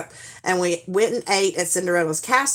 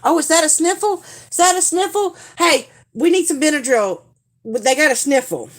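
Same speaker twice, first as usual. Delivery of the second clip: much higher, sing-song fake worry; mock concern; 8 semitones higher, 4 dB louder than usual. Mom eyeing the kids for a sniffle, overdone mock worry. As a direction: pretend to spot a cold as an excuse. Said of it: "I'd be like".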